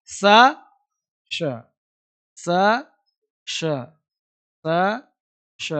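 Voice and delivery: स and श in turn, each a lone clean syllable; drilled sounds. Shown as a demonstration. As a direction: contrast hissed स with hushed श, pausing between. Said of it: "आपके सारे mouth का खेल है". (स और श का अलग-अलग उच्चारण)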